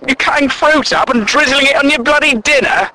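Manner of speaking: ordinary talk, nothing marked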